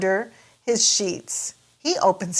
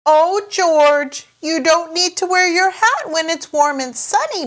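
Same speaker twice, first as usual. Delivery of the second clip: higher, louder gentle mother; Mummy Pig voice; 9 semitones higher, 4 dB louder than usual. Acted. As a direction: tease him like a fond mum. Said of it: "Mummy Pig tells him".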